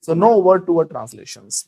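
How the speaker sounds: very slow, word by word; slow teacher demo; slow model sentence. Shown as a demonstration. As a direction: drag each word for the class. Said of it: "बोलो".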